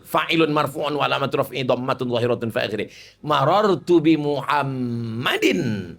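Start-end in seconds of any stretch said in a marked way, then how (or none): 3.2-5.9 very slow, each syllable drawn out; slow demo. Shown as a demonstration. Preacher slowly demonstrating Arabic grammar to the congregation, drawn out. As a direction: spell out Muhammadan slowly for the class. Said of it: "Mana ada bahasa Inggris i'rab?".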